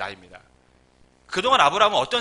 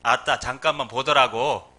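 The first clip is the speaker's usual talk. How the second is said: slow, lower Jeolla accent; Jeolla dialect; 4 semitones lower, 3 dB louder, slower than usual. Shown as a demonstration. Preacher translates "excuse me" into slow Jeolla accent. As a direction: draw it out like a Jeolla local. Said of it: "전라도".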